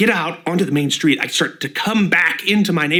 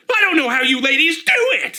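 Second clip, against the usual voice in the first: gravelly growled line; low gravel vigilante growl; 8 semitones higher, 4 dB louder than usual. Acted. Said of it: "Got more of a gravel voice".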